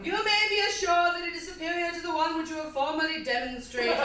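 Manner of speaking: slightly bad British poetry-reading voice; quasi British accent. Comic reads Milkshake as poetry, slightly bad British accent. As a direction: recite it in mock-British English. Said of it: "slightly bad British accent".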